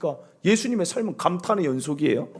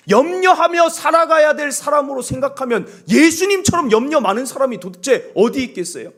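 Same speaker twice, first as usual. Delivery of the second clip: ordinary talk, nothing marked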